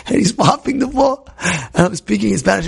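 ordinary talk, nothing marked

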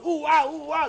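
high playful ooh-ah hooting; mock monkey hoots. Debtor fooling the creditor at the door, mock monkey hoots. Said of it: "he thinks he's a monkey".

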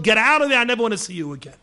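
high shout, fading at the end; retold furious shout. Governor screaming the rabbi out of his sight, high angry shout. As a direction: bark him away, then drop off. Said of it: "He was screaming and yelling with such hatred".

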